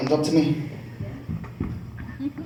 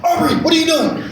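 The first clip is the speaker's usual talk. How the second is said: calling daughter; 9 semitones higher than usual. Retold or imitated. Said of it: "opened the door".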